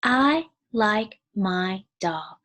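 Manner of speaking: each word drawn out slowly; slow, clear classroom reading; slow read-aloud. Shown as a demonstration. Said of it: "here's a sentence".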